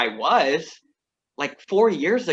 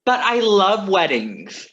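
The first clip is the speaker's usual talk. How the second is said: gushing; 4 semitones higher, 5 dB louder, slower than usual. Acted. Singer defends wedding plan.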